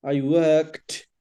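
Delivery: WORKED with a clearly released final t; careful pronunciation. Shown as a demonstration. Teacher models the verb for a student, careful pronunciation. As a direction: say WORKED carefully, ending on a crisp t. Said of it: "Not work, not work".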